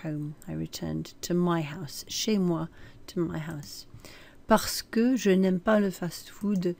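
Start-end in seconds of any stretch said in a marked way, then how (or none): 3.1-3.9 whispered gloss. Real, not acted. Teacher restating translation as aside.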